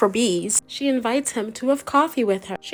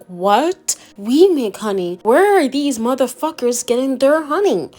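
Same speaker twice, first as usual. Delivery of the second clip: outraged disbelief; 3 semitones higher, 5 dB louder than usual. Retold or imitated. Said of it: "and he's like".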